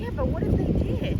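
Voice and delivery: dog voice. Pretend. Voicing the dog, pet voice.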